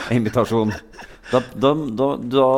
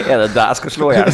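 ordinary talk, nothing marked

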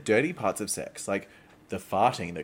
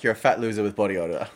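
movie quote; 2 semitones lower, 5 dB louder, faster than usual. Retold or imitated. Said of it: "what's the quote from School of Rock?".

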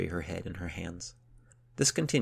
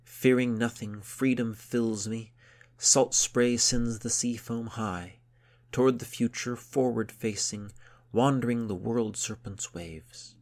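slow, raised, declaimed verse; shouted verse; 4 semitones higher, 5 dB louder, slower than usual. A narrator's reading. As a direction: proclaim it to the horizon. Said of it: "shouted it to the horizon".

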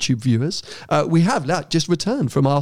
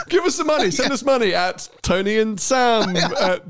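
laughing; 6 semitones higher than usual. Real, not acted. Laughing repeat of money plea.

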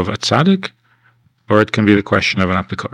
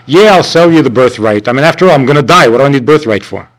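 louder, quick and offhand; careless shrug; 3 semitones higher, 4 dB louder than usual. Retold or imitated. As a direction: toss the birthright away. Esav selling the birthright.

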